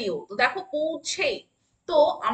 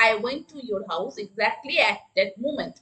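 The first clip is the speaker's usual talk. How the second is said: very slow, word by word; slow classroom dictation; 3 semitones lower, much slower than usual. Shown as a demonstration. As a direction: spell it out slowly for the class. Teacher models a sentence.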